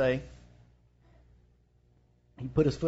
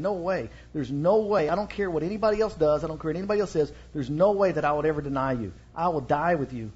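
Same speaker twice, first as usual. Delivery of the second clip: insistent, lightly acted protest; emphatic. Peter jumping up from the table to swear loyalty, emphatic. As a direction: hammer out each refusal with moderate force. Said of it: "this is Peter jumping up emphatically".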